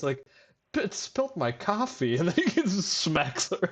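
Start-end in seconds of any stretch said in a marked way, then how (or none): 0.7-2.2 higher, mock disbelieving man; incredulous. Retelling the ad man's line, incredulous. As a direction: sound stunned someone dared spill it. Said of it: "he's, like, incredulous".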